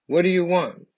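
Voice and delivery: put-on a march leader shouting to the children; rally call. March leader calling to the crowd.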